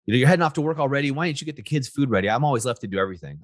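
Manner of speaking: a lightly played complaining wife; wife scolding husband before work, mock complaint; nagging wife. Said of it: "when my wife tests me".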